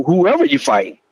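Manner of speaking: ordinary talk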